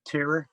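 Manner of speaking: tour mimicked as "TEER-er"; Californian "tour". Questioning the Californian way of saying tour, "teer-er". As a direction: tour in two syllables with an "ee" vowel. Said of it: "talk about going on tour".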